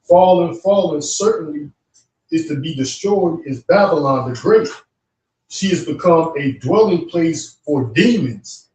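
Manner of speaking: slow, solemn reading of Revelation; scripture reading. Acted. Reading Revelation to his cohost, solemn. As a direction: read it out like a proclamation. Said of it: "It says that he shouted with a mighty voice".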